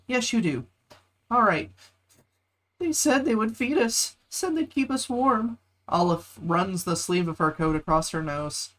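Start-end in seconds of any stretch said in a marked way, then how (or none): 2.8-5.6 put-on child voice. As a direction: plead like a frightened child. Voices rescued child Olive.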